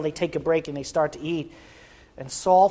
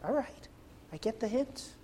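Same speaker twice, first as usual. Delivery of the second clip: resigned giving up; 4 semitones higher, 16 dB quieter than usual. Acted. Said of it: "the Lord just stops".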